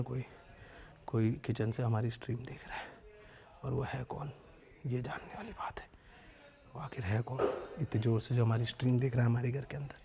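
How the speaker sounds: hushed, eerie low whisper; spooky whisper. Pretend. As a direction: whisper it like a ghost story. Spooky "someone's watching" bit.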